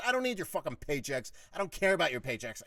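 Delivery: heated 'don't care' comeback; retold defiant snap. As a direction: throw it back at him, re-enacting the row. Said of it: "now I was saying it like this to him".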